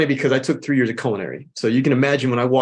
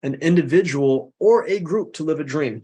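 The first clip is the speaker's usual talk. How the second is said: said slow. Shown as a demonstration. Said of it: "I'll say it slow so people can".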